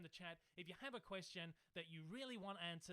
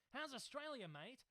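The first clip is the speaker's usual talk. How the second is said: put-on Australian accent; 6 semitones higher, 3 dB louder than usual. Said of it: "I'm trying to be Australian".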